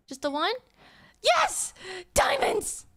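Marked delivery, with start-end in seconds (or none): 1.2-2.9 high loud cheer of joy; excited. Real, not acted. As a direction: celebrate the find, thrilled. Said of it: "I'm very happy if you guys couldn't tell".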